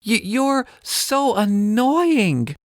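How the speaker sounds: put-on high, slow cross girl voice; a touch of childish annoyance, slowly; mild mock anger. Ella fed up with Parrot, mildly angry girl. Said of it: "Ella says angrily".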